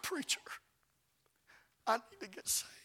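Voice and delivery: breathy whisper, head bowed; hushed plea to the preacher; whispered confession. Retold or imitated. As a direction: barely voice it, ashamed. Woman drops head, confesses.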